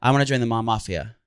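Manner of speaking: lightly British-tinged delivery; British-like accent. Shown as a demonstration. Asking friend to place the accent, faintly British. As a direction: try a slightly British "mom mafia". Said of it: "It almost sounds British".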